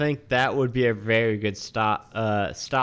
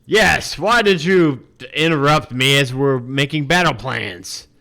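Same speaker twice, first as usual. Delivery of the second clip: annoyed father; 3 semitones higher, 6 dB louder than usual. Acted.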